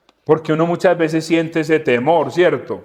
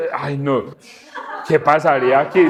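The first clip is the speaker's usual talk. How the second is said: laughing disbelief; 2 semitones lower than usual. Pretend. Acting a bewildered, amused person.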